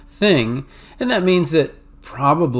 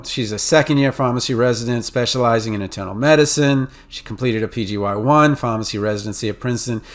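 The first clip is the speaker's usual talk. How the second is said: crisp New England, Mid-Atlantic reading; New England accent. Shown as a demonstration. Lecturer demos a New England Mid-Atlantic accent. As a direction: read it like a Northeasterner. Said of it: "revert to my New England, Mid-Atlantic accent".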